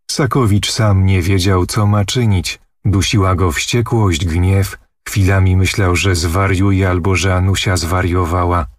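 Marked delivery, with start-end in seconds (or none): none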